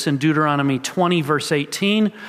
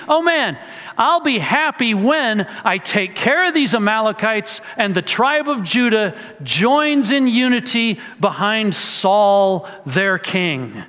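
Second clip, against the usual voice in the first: voicing Saul's daydream; 4 semitones higher than usual. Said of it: "And he's dreaming".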